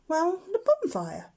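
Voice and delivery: a shy owlet explaining. A narrator's reading. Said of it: "Plop said".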